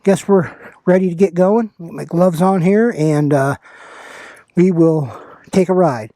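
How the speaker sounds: muffled through a motorcycle helmet; talking inside a helmet on the bike. Real, not acted. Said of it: "wind noise through my helmet".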